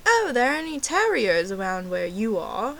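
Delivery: lightly mocked American waiter; American accent. Waiter asking the fake Brit about terriers, imitated American accent. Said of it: "That's my American accent".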